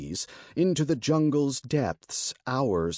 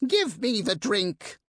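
rasping creature; 10 semitones higher than usual. Acted. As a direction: rasp it out like a greedy bird beast. Monster demands the wine.

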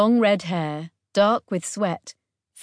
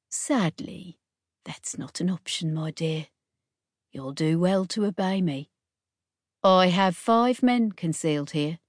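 suave. Acted. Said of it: "The bandit captain smiled suavely".

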